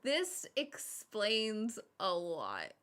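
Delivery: very slow, knowing deadpan; dry mock realization; deadpan friend. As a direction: draw it out like it all makes sense now. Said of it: "They would be like".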